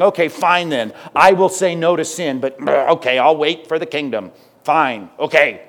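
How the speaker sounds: a touch of sulky, grudging agreement; mock a reluctant yes to God; hint of a begrudging sigh. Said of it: "if you got that attitude".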